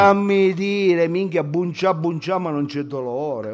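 lightly voiced drawn-out student slang; brash student character. Student insisting on his greetings, brash drawn-out character. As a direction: drag the opening like a street kid. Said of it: "Devo entrare nel personaggio".

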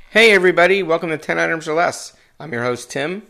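husky, froggy throat; croaky, like a frog in the throat. Real, not acted. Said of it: "Sound like I had a frog in my throat".

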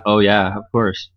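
dry, deadpan "of course"; mock agreement, quietly teasing; sarcastic. Real, not acted. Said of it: "don't have to be sarcastic".

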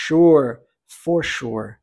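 SURE starting with a "sh" sound. Shown as a demonstration. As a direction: open SURE on a clear "sh". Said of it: "O S com som de sh". (SURE com S som de "sh")

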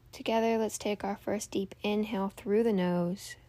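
calm meditation guide with long pauses; guided meditation. Real, not acted. Host guiding listeners to tune out noise and breathe, meditative.

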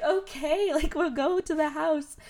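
high, laughing give-in; laughing exasperated okay. Retold or imitated. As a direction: chuckle as you give in. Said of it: "And I'm like".

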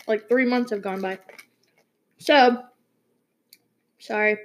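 talking while chewing Pocky; chewing between words; mouth full. Real, not acted. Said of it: "I'm eating those".

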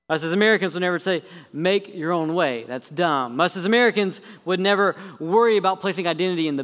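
sarcastic. Acted. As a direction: lay the sarcasm on thick. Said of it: "I hope you're catching my sarcasm because I'm laying it on pretty thick".

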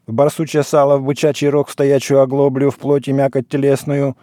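monotone liturgical rattle on one pitch; even, unbroken chanted patter; practised patter. Acted. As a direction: recite it like a priest running through a familiar litany.

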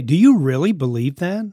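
mock incredulous parent's question; imitating a disbelieving parent; shaming. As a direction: mildly shame the child with a doubting question. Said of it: "those are shaming words".

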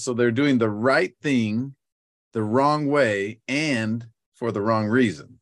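deliberate, slow and measured phrasing; slow and careful. Real, not acted. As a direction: say it slowly to get it right. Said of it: "say this really slowly".

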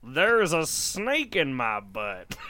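slow drawn-out toy line; pull string toy. Acted. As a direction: play it like a wind-down pull-string doll. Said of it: "Pull my string, Darren".

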